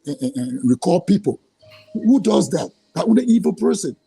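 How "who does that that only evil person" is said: pitched up and indignant; real outrage at him; who does that, said in disbelief; indignant outburst. Real, not acted. Outraged at paying people to gossip.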